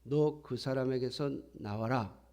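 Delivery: slow, unshouted command; acted stern order, slow and controlled; measured rebuke. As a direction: rebuke slowly without raising the voice. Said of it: "야단치시는 거예요".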